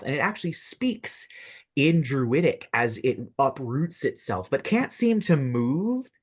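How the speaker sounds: suspenseful scene-setting, drawing out key phrases; game master narration. Acted. Game master reveals a living tree to players, suspenseful narration. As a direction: build the monster's reveal piece by piece.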